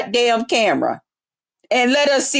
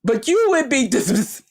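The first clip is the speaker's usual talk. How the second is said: proper voice. Pretend. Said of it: "I speak proper English".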